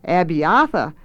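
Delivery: "Abiatha" with its middle A stressed; stress on central A. A narrator's reading. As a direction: repeat "Abiatha" deliberately, leaning on the middle A. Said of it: "stressing the central A".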